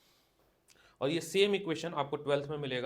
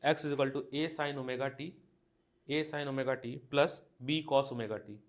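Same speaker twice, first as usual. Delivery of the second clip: words drawn out one by one for writing down; teacher dictating a textbook question; slow dictation; much slower than usual. Shown as a demonstration. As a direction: read the question out slowly for the class. Dictating the equation.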